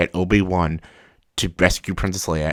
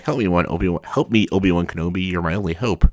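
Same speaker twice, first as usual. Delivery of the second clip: imitated Leia plea. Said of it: "Not like".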